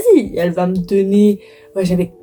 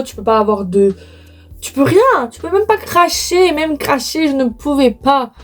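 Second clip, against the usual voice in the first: exasperated; 4 semitones higher than usual. Real, not acted.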